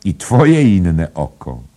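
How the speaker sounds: high, loud drawn-out cry; calling out. A narrator's reading. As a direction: shout it slowly and gleefully. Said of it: "wołając".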